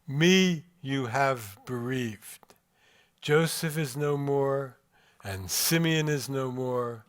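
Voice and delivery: a hint of grieving old Jacob, slow and heavy; lamenting old Jacob. Old Jacob answers his sons, a touch of slow grief. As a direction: let a bereaved father's lament weigh on each phrase, slowly. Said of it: "Jacob responds in the following way".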